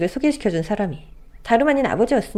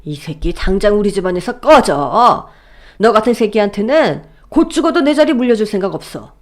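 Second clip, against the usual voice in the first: yelling at the top of his lungs; 3 dB louder than usual. Acted. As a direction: throw him out of the house. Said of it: "고래고래 소리를 질렀습니다". (고래고래 소리 지르는 아버지)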